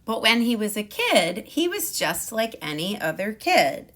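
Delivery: lively, animated storybook narration; picture-book storytime voice; reading to children. A narrator's reading. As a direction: read it out to a class of kids.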